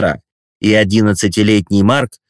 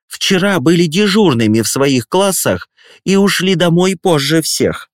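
prosecutorial tone; 7 semitones higher than usual. Acted. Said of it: "прокурорским тоном".

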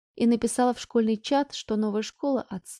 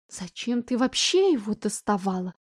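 calming down. Acted. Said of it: "успокаиваясь, спросила мама".

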